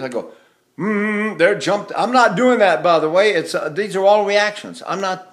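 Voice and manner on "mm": pressed-lip "mm", pitched higher; lip clamp. Shown as a demonstration. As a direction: press the lips into a held "mm". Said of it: "when I do this".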